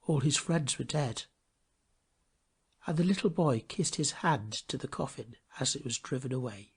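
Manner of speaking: ordinary delivery, nothing marked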